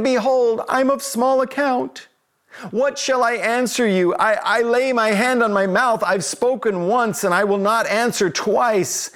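tiny little voice, pitched high; hammed-up meek little squeak, humbled before God; Job. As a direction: shrink into a small, high, timid voice. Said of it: "in a tiny little voice".

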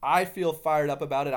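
a touch of real excitement, lively and eager; real fired-up passion. Real, not acted. Host telling listeners about his renewed drive, mildly fired up. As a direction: let the genuine enthusiasm lift the words a little. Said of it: "I'm sure you can even hear it in my voice".

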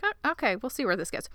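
hesitant, mildly acted curiosity; intrigued. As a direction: start high and tentative, then settle down. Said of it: "a little bit intrigued".

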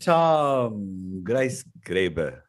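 milk the name like a game show host; drawn-out announcer flourish; hammed-up host intro. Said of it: "I have to say it like that".

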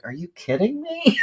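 high, laughing are you kidding me; laughing disbelief. Retold or imitated. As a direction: burst into incredulous laughter.

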